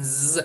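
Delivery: "z" as a voiced buzz; z sound. Shown as a demonstration. Teacher shows the ending to use, buzzed z. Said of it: "gibi telaffuz edeceğiz".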